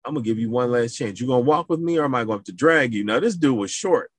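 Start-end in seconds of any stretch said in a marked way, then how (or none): 0.0-3.0 retold threat. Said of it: "He said".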